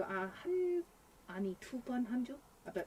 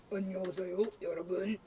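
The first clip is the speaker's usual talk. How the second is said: dropped manly greeting; deep man voice; much faster than usual. Shown as a demonstration. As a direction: say it like a low man. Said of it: "that's my 남자".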